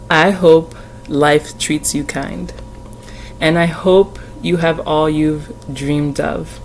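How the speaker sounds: slow, tender lyric reading that breaks into tears; teary reading. Real, not acted. Reading song lyrics to viewers, slow and tearful. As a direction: read each line slowly, holding back tears. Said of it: "I almost got a little teary".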